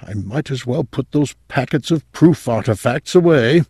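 a touch of giving up, to oneself; resigned. A narrator's reading. Boss tells himself to pack up fake proof, mildly resigned. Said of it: "said to himself resignedly".

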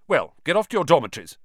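quick, stern prefect order; brisk prefect telling them off; sternly. Acted. Percy orders the boys to bed, stern and quick. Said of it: "said Percy sternly".

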